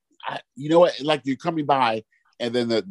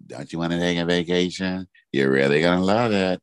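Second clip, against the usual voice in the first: low, creaky commercial voiceover; low fried sales pitch; commercial vocal fry; 5 semitones lower than usual. Retold or imitated. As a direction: imitate an ad voice actor frying her vocals. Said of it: "there's a voice on commercials".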